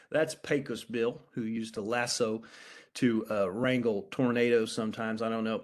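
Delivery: put-on light West Texas accent, slowed a little; west texas twang. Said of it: "I'm putting on my West Texas accent here".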